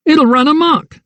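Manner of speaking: very high frantic cry; screamed warning. A narrator's reading. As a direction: scream over the roar of flames. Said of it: "he screamed".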